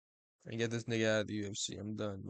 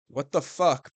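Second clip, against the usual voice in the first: loud, disbelieving what the fuck; annoyed fan yelling at the fight; incredulous outburst; 6 dB louder, slower than usual. Real, not acted. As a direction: blurt it out in disbelief.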